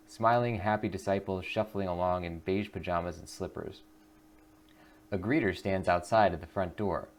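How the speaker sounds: steady storyteller read of the scene; story narration. A narrator's reading. Narrator describing the Brotherhood street, steady read. Reads game narration aloud.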